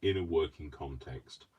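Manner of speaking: measured, careful posh work voice; proper posh British. Shown as a demonstration. Showing how they talk to clients, proper British speech. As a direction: lightly put on your proper client-facing British accent. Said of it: "if I speak properly".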